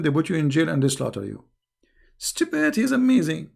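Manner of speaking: quick hushed whisper, rising at the end. Real, not acted. Host to viewers about persecution, whispering. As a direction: drop to a whisper as if telling a secret.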